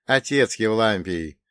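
slow, amused smirk. Acted. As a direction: brush it off with a grin. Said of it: "с усмешкой произнёс я". (с усмешкой)

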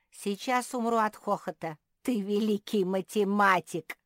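high, loud teasing; mocking glee. A narrator's reading. Squirrel mocking the bear's arithmetic, gleeful jeer. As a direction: jeer with loud sarcastic praise.

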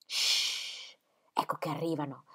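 sussurrato, quasi senza voce; sussurro. Acted. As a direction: bisbiglia per non farsi sentire. Sentono arrivare gli uomini. (madre avverte le ragazze che arrivano, sussurrando)

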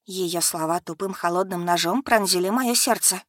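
ordinary delivery, nothing marked

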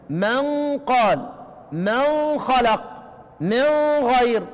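من said very slowly with a clear, distinct nun before the next letter; clear izhar recitation. Shown as a demonstration. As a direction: recite من قال slowly with the nun fully pronounced. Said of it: "هنقرا بالاظهار".

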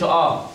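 "آه" with a heavy dark a; thickened hamza. Shown as a demonstration. Teacher warning pupils, heavy wrong vowel. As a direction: say "آه" emphatic and thick. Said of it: "ما تفخمهاش، ما تقولش".

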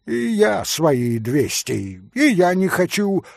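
emphatic refusal, rising in force; exclaimed. A narrator's reading. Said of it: "воскликнул Митя". (решительный возглас)

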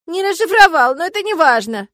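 tearful protest. A narrator's reading. Sobbing heroine answers her friends.

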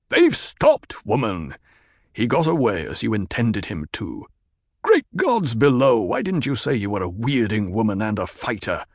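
a lightly voiced stern desert chieftain; firm tribal leader laying down the law; Stilgar. Leader explains the tribe's rule to a woman, stern.

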